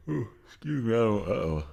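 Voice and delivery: a sudden embarrassed ooh mid-sentence; apologising after an unexpected noise; startled excuse me. Real, not acted.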